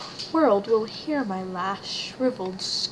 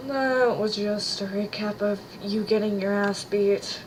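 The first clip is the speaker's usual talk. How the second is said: stoner voice. Acted. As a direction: talk like a sleepy stoner. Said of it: "I'm gonna give you the stoner voice".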